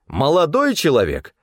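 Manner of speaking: high-pitched indignant scolding; indignant cook. A narrator's reading. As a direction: pull him up short, scandalized. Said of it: "возмутилась кухарка".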